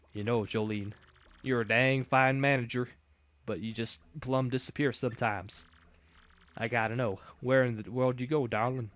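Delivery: lightly voiced Southern redneck, slow; a hint of a folksy Southern boss; easygoing Southern redneck twang; redneck drawl. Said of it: "I know how to talk like a redneck now".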